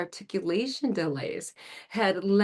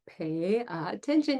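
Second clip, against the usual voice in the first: student reading; slower than usual. Shown as a demonstration. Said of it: "they can read it".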